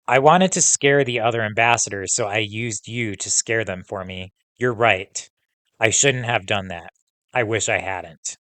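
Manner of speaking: reading a novel aloud to the class; steady read-aloud for students; story narration. A narrator's reading. Teacher reading the book aloud to the class, steady narration.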